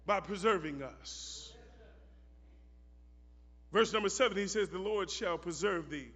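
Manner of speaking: soft, low, unhurried preaching; quiet sermon. Acted. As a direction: draw the congregation in gently. Quiet teaching stretch of sermon.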